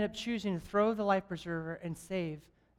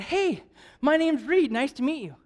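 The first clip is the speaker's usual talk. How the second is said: high, louder friendly introduction; hearty greeting; 6 semitones higher, 5 dB louder than usual. Retold or imitated. Traveler introducing himself to his seatmate, hearty greeting. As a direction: greet a stranger eagerly, pitched up.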